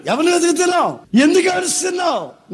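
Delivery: a touch of a high calling voice; Jesus asking. Acted. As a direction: lift it like a call to her.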